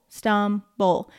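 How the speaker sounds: "Stumble" said slowly so each syllable shows; syllable demo. Shown as a demonstration. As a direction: open the jaw on each syllable. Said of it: "every time that your chin drops".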